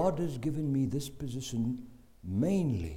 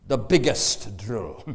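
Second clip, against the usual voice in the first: ominous order; 2 semitones lower, 5 dB louder, slower than usual. Retold or imitated. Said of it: "And he said".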